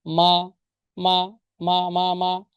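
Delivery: মা short and light, with no tone; neutral tone. Shown as a demonstration. Teacher drilling the neutral question particle মা. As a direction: say মা lightly, toneless, over and over. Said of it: "এটা neutral tone".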